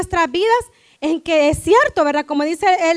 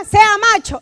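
mock-stern order, raised in pitch; stern parent to boy; 4 semitones higher, 4 dB louder than usual. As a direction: order a little son to toughen up. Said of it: "¿qué le decimos?". (orden severa de padre a su hijo)

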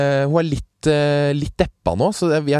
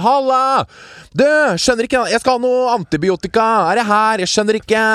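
high, loud, overjoyed banter; giddy joking; 12 semitones higher, 4 dB louder than usual. Retold or imitated. Patient joking giddily with the nurse through the hatch. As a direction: bubble over with relief, pitched way up. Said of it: "jeg bare kødda".

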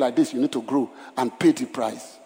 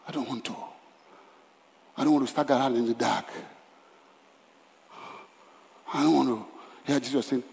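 repeated vow sinking softer each time; fading vow; 3 semitones lower, 7 dB quieter than usual. Real, not acted. Pastor confessing his fear to the church, fading softer. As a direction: let each I don't want to fade away. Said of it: "pastor's fading personal vow".

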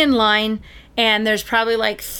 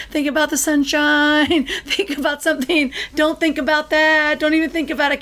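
half-laughing mock mantra; laughing self-talk; 5 semitones higher than usual. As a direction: coax your own mind away, giggling. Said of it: "So I was just like this".

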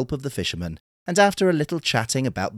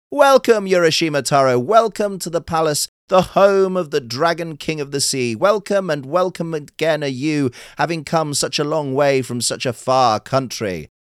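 high, loud courtly greeting; crying welcome; 6 semitones higher, 5 dB louder than usual. Acted. Courtiers greet the stranger at the palace, high and loud. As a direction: call out grand welcome. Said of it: "they all cried".

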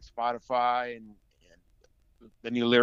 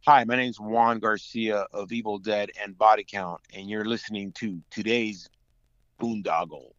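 radio promo ID; 4 dB louder than usual. Shown as a demonstration. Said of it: "cutting a promo I D for the show".

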